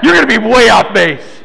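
words breaking up with laughter; laughing. Real, not acted. Preacher teasing a congregant's answer, laughing. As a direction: tease through your own laughter.

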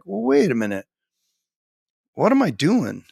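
retold realisation. Author recalling his doubts about publishing, retold realisation. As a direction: act out pulling yourself up short.

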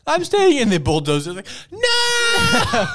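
high, loud cartoon shout; mock defiant scream. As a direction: shriek a hammed-up refusal. Acting the man defying a bulldozer.

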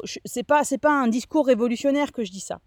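speaking with a dry throat; words catching in a dry throat. Real, not acted. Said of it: "j'avais la, la gorge un peu sèche".

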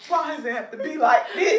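mock lament. Mock meltdown wail.

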